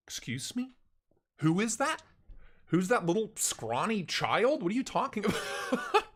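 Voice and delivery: high, puzzled mock reaction; baffled bystanders. Crowd of thirty reacting to the yelling, puzzled and high. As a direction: play the confused crowd turning to stare.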